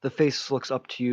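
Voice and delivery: ordinary talk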